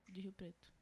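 whispered, no voice. Real, not acted. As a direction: breathe the words out unvoiced. Drops into a whisper.

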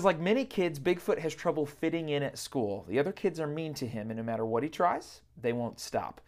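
gentle storybook reading voice; librarian voice. Shown as a demonstration. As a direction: read it like a school librarian. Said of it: "I'll try to use my librarian voice".

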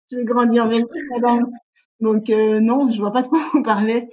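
répondre plus fort et plus haut, encore amusée; réplique imitée à une prof, lancée fort. Retold or imitated. Réplique retenue à la prof, riant. (réplique amusée à la prof)

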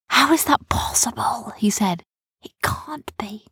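high-pitched, breathy wonder; amazed disbelief. A narrator's reading. Rowan reacting to a bird's catch, amazed. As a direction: marvel at the impossible, voice lifted.

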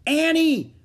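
high, loud shout of a name; desperate yell; crying out. A narrator's reading. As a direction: call out urgently, far above normal pitch. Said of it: "cried Jack".

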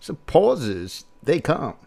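lightly voiced Walken, pauses placed late; a hint of Walken's halting phrasing; Christopher Walken impression. Host testing where Walken's pauses fall, lightly voiced. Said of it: "That sounds a little bit more like Walken".

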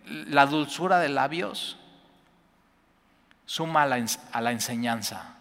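half-hearted scolding yell from the pulpit; a hint of a preacher who is always yelling; mock shouting preacher. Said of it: "un predicador que todo el tiempo está gritando".

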